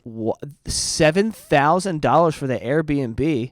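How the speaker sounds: slow, stunned "seven thousand dollars"; incredulous. Acted. Rereading the price to viewers, slow and stunned. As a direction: draw out "seven" in disbelief. Repeats the figure in disbelief.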